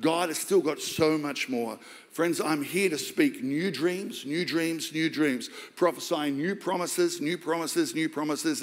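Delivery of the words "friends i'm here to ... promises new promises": slow, rising proclamation; preaching. Acted. Preacher declaring new dreams over the church.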